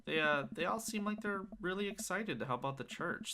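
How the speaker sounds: lightly played uneasy diplomacy; awkward politeness. Acting Red answering awkwardly.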